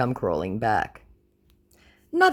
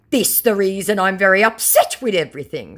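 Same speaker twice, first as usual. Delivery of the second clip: loud, raised-pitch hammed-up complaint; mock lament; 7 semitones higher, 7 dB louder than usual. Scammer complaining to the target, mock lament. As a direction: imitate an upset scammer, overdone. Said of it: "he laments".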